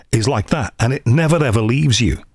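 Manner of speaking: lightly demonstrated Liverpool accent; real Scouse accent. Shown as a demonstration. Podcast host shows listeners a real Liverpool accent, Scouse demo. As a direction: slip into a proper Scouse accent for a moment. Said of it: "But a real Liverpool accent".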